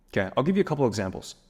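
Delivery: ordinary talk, nothing marked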